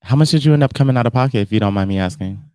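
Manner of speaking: normal talking voice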